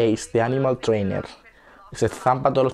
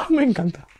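delighted whisper; 12 semitones higher, 3 dB louder than usual. Real, not acted. Delighted reacting to video.

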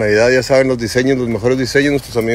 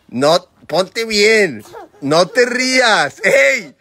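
mock scolding; 8 semitones higher, 4 dB louder, much slower than usual. Real, not acted. Regaña al niño para la foto.

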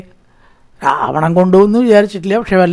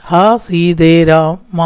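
drawn-out mock cry; much slower than usual. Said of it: "ഇവൻ എങ്ങനെ കരഞ്ഞത്?".

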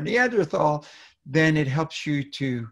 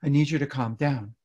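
placating calming down; 2 semitones higher than usual. Acted. Parent responding to an unhappy child, placating. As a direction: soothe without raising the volume. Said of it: "if you respond to your child's unhappiness or frustration by saying".

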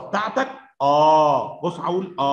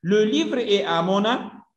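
slow reading; 4 semitones higher, much slower than usual. Shown as a demonstration. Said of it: "teacher reads French sentence".

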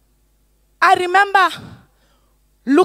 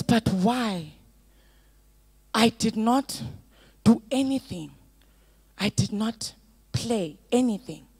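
tearful son; 3 semitones lower, 9 dB quieter than usual. Retold or imitated. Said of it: "With tears in his eyes".

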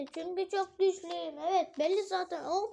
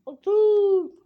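loud command; 3 semitones higher, 10 dB louder than usual. Shown as a demonstration. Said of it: "Sakın atmayın".

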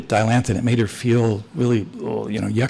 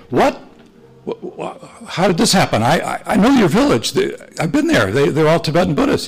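astonished; 4 semitones higher than usual. Retold or imitated. Priest astonished by converted woodsmen.

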